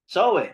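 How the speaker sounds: "Soe" said the Filipino way, as "so-weh"; wrong pronunciation. Shown as a demonstration. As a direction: end "Soe" on an open "weh". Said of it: "Hindi ganyan ang English pronunciation niyan". (bigkas-Pilipino na "Soe", parang "so-we")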